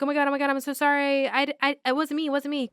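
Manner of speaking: hammed-up terrified snitch; mock panicked pleading. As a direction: gabble the apology in a lightly faked panic. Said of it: "And he's like".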